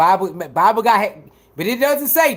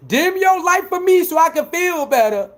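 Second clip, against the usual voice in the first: mocking haters; 5 semitones higher than usual. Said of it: "trying to tell somebody".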